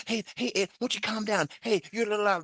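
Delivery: high, sing-song mockery of the boss; needling manager mimicked in a high sing-song; mocking manager. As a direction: mimic him in a high teasing voice. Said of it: "No, it's like this".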